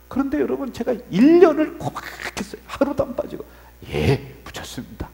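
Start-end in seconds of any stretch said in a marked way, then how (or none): 3.9-5.1 low, soft, swallowed answer; submissive reply. Acted. Junior pastor answering senior pastor about tickets, subdued. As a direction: answer obediently, keeping the resentment down.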